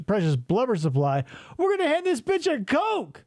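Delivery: gruff mock-predator voice, lightly done; deadpan hungry polar bear, rising at the end.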